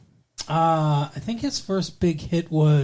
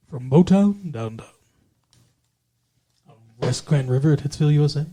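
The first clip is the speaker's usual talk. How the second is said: radio DJ voice; faster than usual. Retold or imitated. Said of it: "get a job D J ing".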